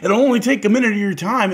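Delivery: high, loud pushy sales pitch; pushy saleslady. Retold or imitated. Husband mimics the pushy kiosk saleswoman, high and loud. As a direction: imitate the pushy kiosk lady. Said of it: "She's like".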